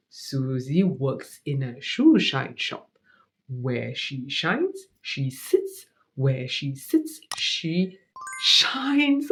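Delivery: slow, careful tongue twister. Shown as a demonstration. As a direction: spell out each sound slowly. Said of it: "let me just simply tell you".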